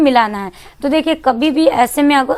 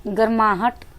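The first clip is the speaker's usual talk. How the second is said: soft breathy demo; 3 semitones lower, 12 dB quieter than usual. Shown as a demonstration. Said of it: "मुख से गर्माहट निकलती है".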